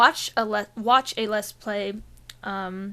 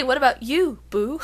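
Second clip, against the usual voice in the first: playful teasing; 3 semitones higher, 5 dB louder than usual. Retold or imitated. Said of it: "do you say".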